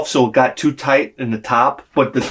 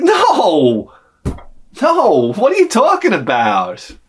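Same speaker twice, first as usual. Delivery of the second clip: mock panicked denial; 5 semitones higher, slower than usual. To the niece about the party, panicky higher whine. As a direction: deny it too fast, half-crying.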